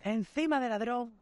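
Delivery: high, drawn-out mock shouting; retold yelling. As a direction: re-enact an outraged yell, high and stretched. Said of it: "me puse a gritarle al tío".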